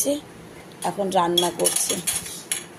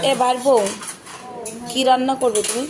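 raised voice calling across the house; 4 semitones higher than usual. Real, not acted. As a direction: call out to someone in another room. Calling out to sister-in-law.

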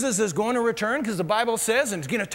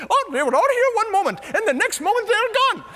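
much higher, louder, fast and breathless; excited coworker voice; 11 semitones higher, 5 dB louder than usual. Retold or imitated. Coworker tells Herbert the others vanished, high and fast. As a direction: play the coworker bursting with fake alarm.

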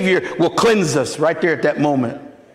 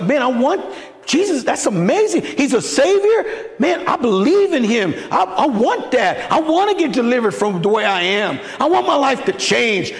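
higher, eager voice of a new believer; eager plea; 3 semitones higher than usual. Retold or imitated. Preacher reliving asking Jesus to change him, higher and eager. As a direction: beg to be changed. Voicing himself pleading to Jesus.

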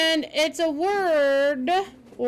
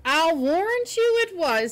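higher-pitched, firm "I'll warrant you it was"; emphatic; 4 semitones higher than usual. A narrator's reading. Marilla answering the girl about her idea, emphatically. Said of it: "said Marilla emphatically".

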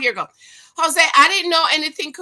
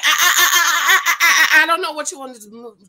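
stammering; 5 semitones higher, 8 dB louder, faster than usual. Retold or imitated. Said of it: "And he's like".

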